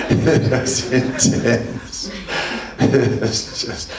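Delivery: breathless laughing words. Real, not acted. Devotee laughing about the intense bath under the table. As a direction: let the laugh carry it.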